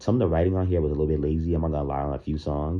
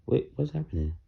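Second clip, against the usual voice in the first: surprised; 9 semitones higher, 4 dB quieter than usual. Real, not acted. Stream suddenly cut to commercial.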